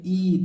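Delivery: "ई" said with a stronger, held ee; forceful long ee. Shown as a demonstration. Teacher showing children the double-e sound, forceful "ई". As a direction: give "ई" a bit of extra force. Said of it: "थोड़ा सा sound जोर से".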